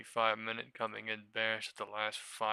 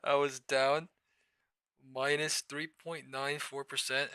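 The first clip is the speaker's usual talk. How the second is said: excited; 4 semitones higher, 5 dB louder than usual. Real, not acted. Excited about account swing.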